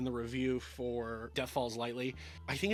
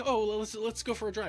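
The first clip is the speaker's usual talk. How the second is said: higher-pitched, hesitant suggestion; forced casualness; 7 semitones higher, 3 dB louder than usual. Retold or imitated. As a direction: imitate someone trying not to sound hysterical. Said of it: "without being hysterical".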